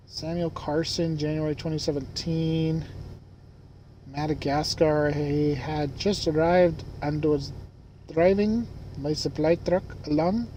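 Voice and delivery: put-on uncertain, made-up Madagascar accent; attempted Madagascar accent. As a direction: read it haltingly in a vague attempt at a Madagascar accent. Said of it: "I don't know what accent that is".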